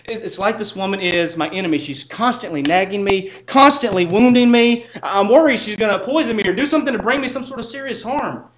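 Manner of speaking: husband venting to the counselor, mildly heated; mock furious husband. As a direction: play the fed-up husband, half-hearted anger. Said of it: "the husband's furious at this point".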